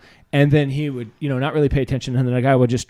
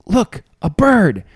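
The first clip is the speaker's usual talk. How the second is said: cartoon bystander; 4 semitones higher, much slower than usual. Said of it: "he'd be like".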